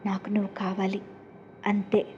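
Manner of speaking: whispered obsessive confession to cousin. A narrator's reading. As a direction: breathe the want close to him. Obsessed girl pressing her cousin.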